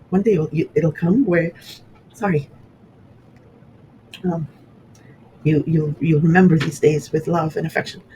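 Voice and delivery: real choked-up halting delivery; getting emotional. Real, not acted. Daughter recalling her late mother's words, getting emotional. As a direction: stop and start as emotion catches you. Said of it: "sorry, I didn't mean to do that".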